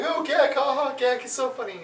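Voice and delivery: high sing-song mockery of a fan; mocking fan voice. Fed-up host mocks fans repeating the Gak joke, high squeal. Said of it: "It's like".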